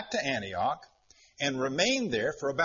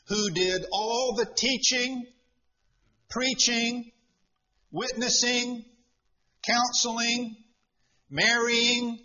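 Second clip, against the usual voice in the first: higher-pitched, deliberate list, each item set apart; mock Bible reading; 4 semitones higher, slower than usual. Preacher reading out what the verse doesn't say, mock recital. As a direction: pile up the duties as a pretend verse.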